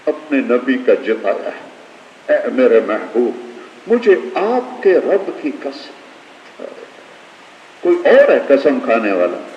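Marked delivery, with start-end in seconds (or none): 2.5-6.7 tender, slow recitation. Shown as a demonstration. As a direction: savour each word of the oath tenderly. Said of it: "गौर करो, कह रहा".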